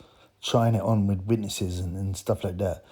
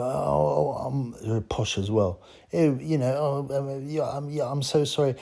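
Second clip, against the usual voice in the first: higher, fumbling apology; a hint of a flustered young woman; mimicked flustered woman; 3 semitones higher than usual. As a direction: play her as flustered and caught out.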